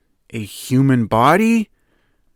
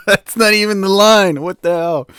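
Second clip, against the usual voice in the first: indignant disbelief; 9 semitones higher, 7 dB louder than usual. Real, not acted. Laughing outrage at misquoted line.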